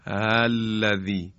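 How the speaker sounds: الَّذِی with a weak, slack opening hamza; soft wrong hamza. Shown as a demonstration. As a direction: show the lazy way to say الَّذِی.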